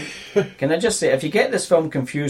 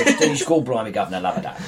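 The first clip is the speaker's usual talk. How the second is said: bad Cockney accent; 3 semitones lower than usual. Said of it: "What bad accent are you going for?".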